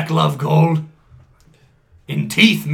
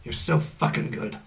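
whispered; 11 semitones lower, 11 dB quieter than usual. Acted. Dentist admires Joey.

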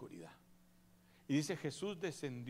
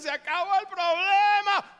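loud, much higher gloating cry; gloating Satan; 14 dB louder than usual. Acted. Satan celebrating among the dead, loud gloating cry. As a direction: crow over a victory like Satan. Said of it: "Satanás hizo fiesta y dijo".

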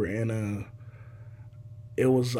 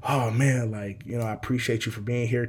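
subdued thanks. Retold or imitated. Dad to son before the good news, subdued thanks. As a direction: say it muted, as if nearly defeated. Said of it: "that energy changed, you know, it w-, it went from".

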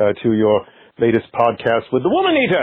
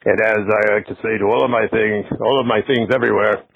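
Paul Bearer impression. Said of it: "I did a spot-on impression of Doctor Paul Bearer".

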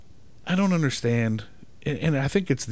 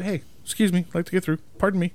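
a friendly, higher, easy "Hey, excuse me"; polite excuse me; 6 semitones higher, much faster than usual. Shown as a demonstration. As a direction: ask nicely, no edge.

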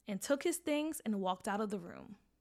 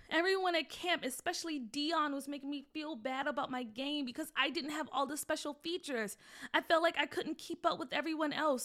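put-on a higher, pleading little boy owning up; confessing boy; 5 semitones higher than usual. Guilty son confessing to his mom, higher and pleading. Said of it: "Nathaniel confessed".

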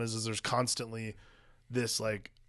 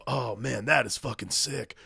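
excited shout; 9 dB louder, slower than usual. Retold or imitated. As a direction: hype it up, louder at the end. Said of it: "and just go".

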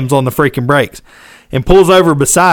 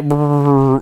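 a quick rolling brrr for the car stopping; imitated braking noise. Describing getting pulled over, imitated braking rumble. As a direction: mimic the tires pulling over. Car pulling onto the shoulder.

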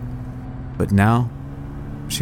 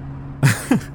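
soft breathy laugh; 4 semitones higher, 6 dB quieter than usual. A narrator's reading. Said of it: "she laughed".

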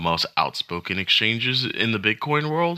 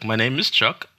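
put-on Central Asian accent; 4 semitones higher than usual. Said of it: "And he's like".

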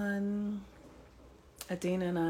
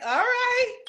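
much higher, louder self-pep; mock resolve; 5 dB louder than usual. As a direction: psych yourself up. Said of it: "I'm like".

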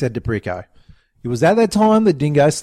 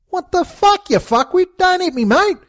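high, loud cry of outrage; pained shout; 4 dB louder than usual. Acted. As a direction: yell it as you take a punch. Dingo punched in the gut.

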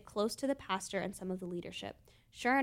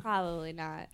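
whispered and lower, an aside; whispered repeat; 4 semitones lower than usual. Real, not acted. Repeats it under his breath.

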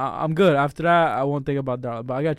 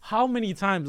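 impassioned; 9 semitones higher, 4 dB louder than usual. Real, not acted. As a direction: plead it, rising up high. Passionate plea about true love.

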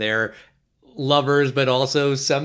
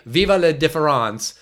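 French phrase; 4 dB louder than usual. Retold or imitated. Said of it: "like the French say".

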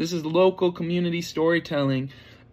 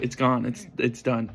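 ordinary talk, nothing marked

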